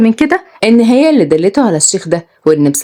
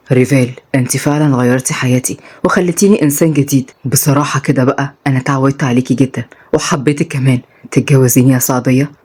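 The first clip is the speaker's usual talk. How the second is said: lower, tender proposal; young man proposing; 5 semitones lower than usual. Acted. Rayan proposes.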